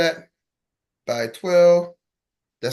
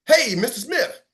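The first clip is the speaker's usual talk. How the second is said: energetic greeting; 7 semitones higher, slower than usual. Shown as a demonstration. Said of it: "do that again".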